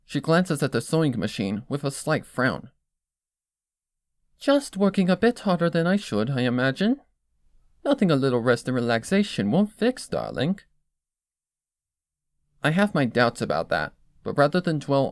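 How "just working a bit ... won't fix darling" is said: admiring Rarity. Acted. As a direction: savor each compliment like a fashion critic. Rarity dismissive.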